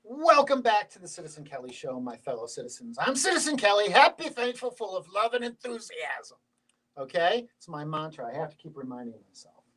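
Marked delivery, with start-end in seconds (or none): 0.0-6.4 rolling presenter's welcome; show host opening. Acted. Host welcoming listeners back to the show, presenter delivery. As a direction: announce the show with swelling emphasis.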